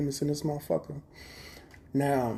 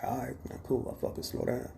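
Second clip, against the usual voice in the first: mock backing down; 7 dB quieter than usual. Backing down after being told slow down.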